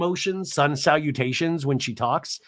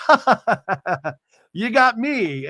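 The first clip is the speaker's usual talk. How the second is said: higher, louder forced ha-ha; hammed-up fake laugh; husband faking a laugh at a joke; mock fake laugh; 8 semitones higher, 5 dB louder than usual. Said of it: "And then he goes".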